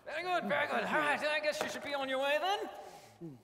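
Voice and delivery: lightly put-on posh English accent. Joseph greeting his brothers in a mild posh English accent. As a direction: play the grand Egyptian host in a posh English accent. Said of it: "This accent is wearing on me".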